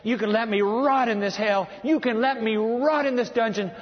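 acted desperate begging; desperate prayer. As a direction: cry out to God in urgent repeated phrases. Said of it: "I'm sure the prayer was".

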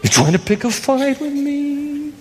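high, strained, put-on comic officer voice; Colonel Klink. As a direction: do a hammed-up sitcom German colonel. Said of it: "Sounds like Colonel Klink in, uh, Hogan's Heroes".

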